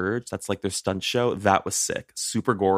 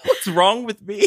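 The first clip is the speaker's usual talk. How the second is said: cracking, strained high voice; 12 semitones higher, 6 dB louder than usual. Real, not acted. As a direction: voice breaking up high. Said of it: "Did you hear my voice crack again?".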